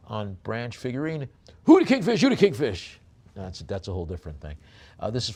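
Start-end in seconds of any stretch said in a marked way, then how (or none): 1.6-2.2 much higher and louder, a shouted joke; playful shout. Pretend. Host shouting a joke about kingfishers, loud and high. Joking about the bird name. 2.2-3.0 mock funny voice. Joke repeated in funny voice.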